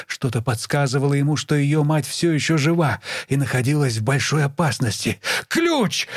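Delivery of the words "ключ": sharp high barked command. Acted. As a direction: bark it right at her ear. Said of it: "рявкнул он".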